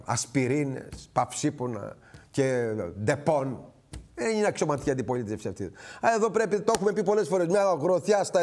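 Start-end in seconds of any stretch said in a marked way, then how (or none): 0.0-3.7 slow, low, softer sneer at the list; slow, quiet mockery of useless painkillers; mocking dismissal. Real, not acted. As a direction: drag the words out with scorn. Mocking opposition's weak remedies.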